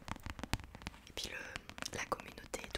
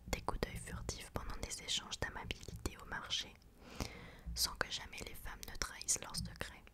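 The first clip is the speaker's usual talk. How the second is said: hushed, measured whispered narration; whispered story reading. Acted. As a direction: read it like a secret tale, whispering. Reads the book excerpt aloud.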